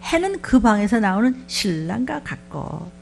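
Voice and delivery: deliberate reading of the verse, 해는 stressed; slow solemn recitation of 해는 그 방에서 나오는 신랑과 같고; slow scripture reading. Shown as a demonstration. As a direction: read 해는 그 방에서 나오는 신랑과 같고 slowly, weight on 해는. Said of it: "시편 십구 편 오 절에 보니까".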